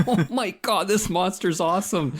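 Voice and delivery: high, thrilled gushing; excited. Retold or imitated. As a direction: gush like a delighted player. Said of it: "and it's like".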